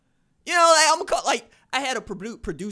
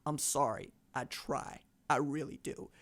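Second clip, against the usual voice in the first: soft, lowered apologetic voice; small, contrite apology; sheepish apology; 5 semitones lower, 6 dB quieter, slower than usual. Retold or imitated. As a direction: back down quietly, pitch dropped. Retold apology to the scolding caller.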